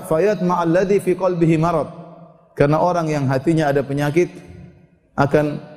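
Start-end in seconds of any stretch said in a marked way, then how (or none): 0.0-1.9 recited verse. Acted. Verse repeated.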